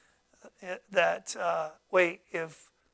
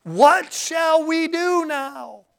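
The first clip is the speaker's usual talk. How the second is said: high, slow, drawn-out worried question; anxious plea; 9 semitones higher, 6 dB louder, much slower than usual. Acted. Servant asks his master, high slow fearful plea. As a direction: stretch it out like a frightened servant. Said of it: "All right?".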